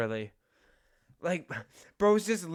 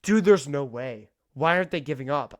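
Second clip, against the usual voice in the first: loud disbelief; 6 dB louder than usual. Real, not acted. Disbelief at explorers.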